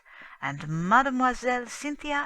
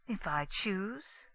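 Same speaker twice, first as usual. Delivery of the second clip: cool defiance; 6 dB quieter, slower than usual. Acted. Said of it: "Her tone did not change".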